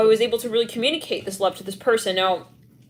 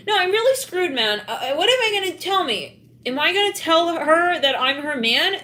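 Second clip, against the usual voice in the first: higher flustered voice; mock panic; 8 semitones higher than usual. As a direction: fret about it. Acting out panicked lover.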